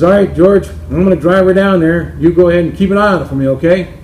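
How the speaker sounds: a hint of a breezy golfer teeing off; Bill at the tee.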